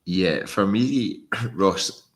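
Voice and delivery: choking on a drink; catching his breath after choking. Real, not acted. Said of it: "I'm choking there".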